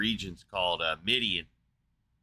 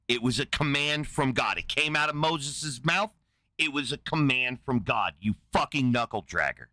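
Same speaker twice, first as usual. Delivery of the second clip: angry. Real, not acted. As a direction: snap back in real annoyance. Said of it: "why are you getting so angry".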